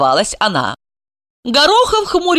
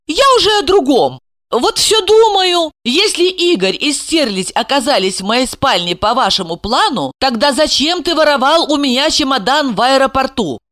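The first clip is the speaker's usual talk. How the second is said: put-on high questioning girl; 7 semitones higher than usual. Asya's voice.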